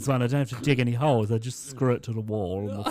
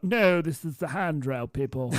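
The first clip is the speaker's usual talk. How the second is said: laughing correction; 5 semitones higher than usual. Retold or imitated. Cheeky reply to customer.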